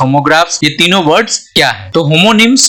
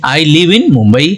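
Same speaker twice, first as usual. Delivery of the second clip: very slow, careful dictation; teacher dictating an English example sentence; much slower than usual. Shown as a demonstration. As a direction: read it word by word for learners. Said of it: "इससे sentence बना".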